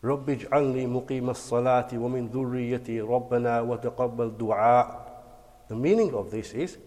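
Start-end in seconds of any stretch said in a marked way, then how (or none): 0.0-4.9 fast, even Arabic prayer chant; Quran recitation. Real, not acted. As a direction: recite the dua smoothly.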